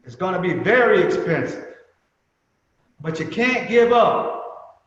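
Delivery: stern manner. Retold or imitated. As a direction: drive it home like a stern old mentor. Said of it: "as he would say in his stern manner".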